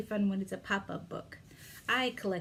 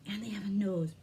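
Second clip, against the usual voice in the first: whispering. Acted. Whispered during finger play.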